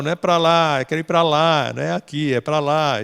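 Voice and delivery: leve voz de criança teimosa; criança manhosa. Retold or imitated. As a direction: imita de leve a criança contrariando a mãe. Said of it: "a criança falava". (criança ensopada imitada de leve, teimando com a mãe)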